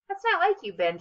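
light amused tease, starting high; chuckling. A narrator's reading. Officer teases Ben, amused and chuckling. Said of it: "chuckled the man".

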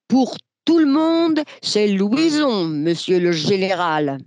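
put-on a boy stubbornly correcting the general; child drummer. Drummer boy insists to the general on his name, lightly voiced child.

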